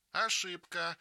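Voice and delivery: put-on child catching out a classmate; gleeful shout. A narrator's reading. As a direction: pounce on the mistake. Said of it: "кричит Нина".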